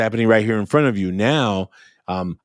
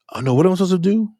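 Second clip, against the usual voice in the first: high, fast flustered student; student caught not knowing, high and hurried; 8 semitones higher, much faster than usual. Retold or imitated. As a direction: play a panicked kid asking what to do. Student voiced asking for help.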